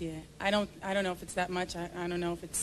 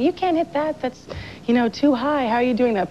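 higher, louder, alarmed disbelief; freaking-out coach; 5 semitones higher, 8 dB louder than usual. Retold or imitated. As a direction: mimic a coach stunned by a note. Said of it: "freaking out when I hit certain notes and going".

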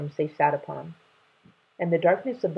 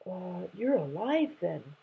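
hesitant; 2 semitones higher, 6 dB quieter than usual. Acted. Startled dragon finds his voice.

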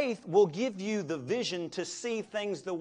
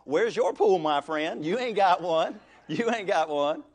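teasing retort; 7 dB louder than usual. Retold or imitated. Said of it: "I'm thinking".

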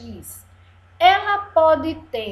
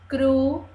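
CRU... CI... FI... XO, one beat each; counting syllables; much faster than usual. Shown as a demonstration. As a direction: say "Crucifixo" in four pieces with long pauses. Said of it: "Vamos contar quantas sílabas". ("Crucifixo" sílaba por sílaba, para contar)

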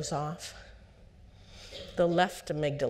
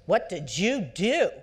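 slow, louder mock scold; a hint of a parent snapping at a mistake; 3 semitones higher, 5 dB louder, slower than usual. Parent scolding a girl for a mistake, slow mock scold. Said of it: "Or worse".

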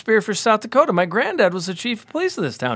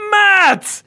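much higher and louder, slow and teary with joy; a soppy drunk touched to tears; slow, high, loud whimpering drunk gratitude; drunken delight; 8 dB louder, much slower than usual. Retold or imitated. Drunk friend delighted by jacket.

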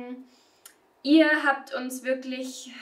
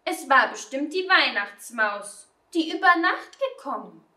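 lightly acted protest of innocence; lightly voiced accused child, stating it outright; outspoken Nelly; 3 semitones higher than usual. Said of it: "Die Nelly sagte rundheraus".

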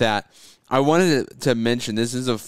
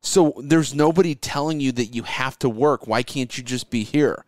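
higher, whiny guilt-trip voice; guilt-trip him like a relative; nagging family; 4 semitones higher than usual. Retold or imitated. Family scolding Keith about Sunday dinner, whiny. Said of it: "your family's like mad".

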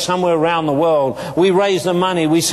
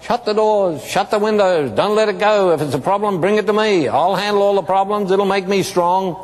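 put-on a higher, squeaky old tycoon calling out; mock squeaky boss calling from his office; 4 semitones higher than usual. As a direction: call it out in a lightly squeaked voice. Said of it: "with his squeaky voice he called out".

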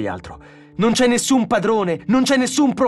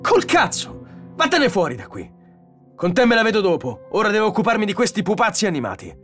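high, loud angry outburst; irate yelling, hurrying at the end; furious dismissal; 11 semitones higher, 4 dB louder than usual. Acted. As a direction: shout them out of the room. Donovan angrily orders the robot out.

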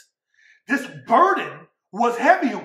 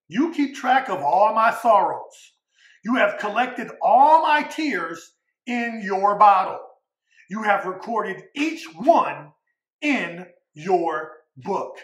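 solemn scripture reading; 2 semitones lower, slower than usual. Acted. Preacher reading the psalm of weeping, slow and fading. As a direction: read the lament slowly, letting it sink.

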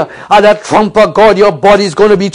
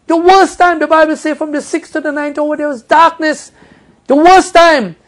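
preaching at full force; 8 semitones higher than usual. Acted. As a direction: lift the voice to the peak of the sermon. Preaching climax.

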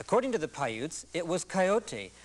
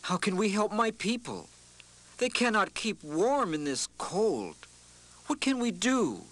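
put-on higher, earnest young boy voice; pleading boy; 5 semitones higher than usual. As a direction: ask like a worried boy. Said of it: "The boy spoke to the Coyote".

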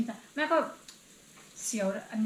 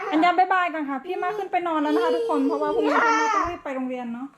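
laughing; 4 semitones higher, 3 dB louder than usual. Real, not acted. Laughing, saying goodbye.

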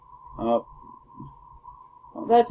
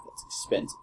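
breathless whisper of shock; 10 dB quieter than usual. Real, not acted. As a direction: whisper at the price. Shocked by price.

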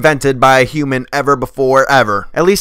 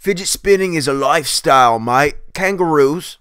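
bad Australian accent. Mocking the pro's lifestyle claim, bad Australian accent. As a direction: parrot it in a hammy Aussie accent. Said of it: "My accent impression sucks".

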